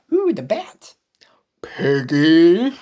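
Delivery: hushed whisper. Acted. Whispering about the bat. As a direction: keep it to a whisper.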